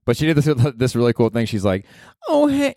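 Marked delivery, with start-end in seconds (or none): 2.3-2.7 high-pitched pop star greeting; a pop singer. Retold or imitated. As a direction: put on a high girly singer voice. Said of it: "She talks like this".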